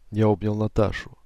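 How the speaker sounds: plain reading voice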